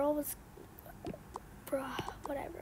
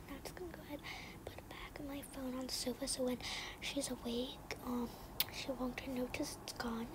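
fast, unvoiced, much softer; hurried whisper; 8 dB quieter than usual. Kid hiding the phone before the babysitter wakes, hurried whisper. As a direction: rush it under your breath.

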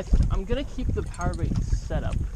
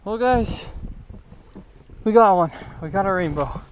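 proud, higher and louder; excited; 3 semitones higher, 6 dB louder than usual. Real, not acted. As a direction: beam at the camera over the catch. Showing the catch.

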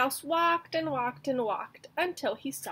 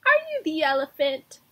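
much louder, higher challenge; 5 semitones higher, 10 dB louder than usual. Acted. Mouse challenging the elephant, loud and high. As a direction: shout it up at a giant. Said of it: "said the mouse".

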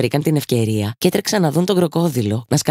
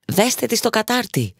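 Hook snapping an order at his crew, higher; mock shouted order; 9 semitones higher than usual. A narrator's reading. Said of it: "φώναξε ο Χουκ".

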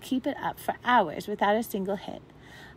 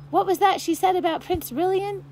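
much higher, louder eager question; curious creature; 9 semitones higher, 5 dB louder than usual. A narrator's reading. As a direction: another creature pipes up. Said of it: "said another".

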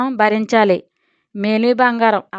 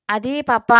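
a hint of hesitation, trailing off; mildly hesitant daughter; hesitant mumble. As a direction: falter on పప్పా, unsure. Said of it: "నసిగింది".

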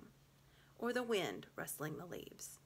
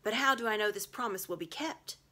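louder sneering witch; suspicious witch; 4 semitones higher, 7 dB louder than usual. A narrator's reading. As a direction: challenge him with distrust. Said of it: "she stopped and said".

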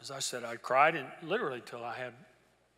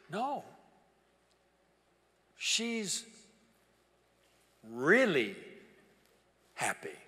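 happy tone; much slower than usual. Retold or imitated. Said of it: "kinda had a happy tone to his voice".

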